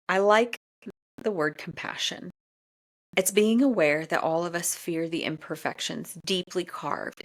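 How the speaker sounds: measured reading of a book passage; reading aloud. Acted. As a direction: read the excerpt to the audience gently.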